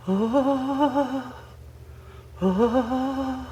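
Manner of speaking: soft, high wavering hoot; quiet drawn-out quavering hoo; imitated owl hooting. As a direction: mimic a ghostly owl call, very softly. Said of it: "like that, doing the sounds".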